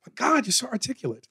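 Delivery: mock white fan. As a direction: gush patronizing praise. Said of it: "white people come up to me and go".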